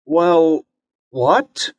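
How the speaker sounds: put-on a kid caught off guard; surprised boy. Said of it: "Bobby asked, surprised".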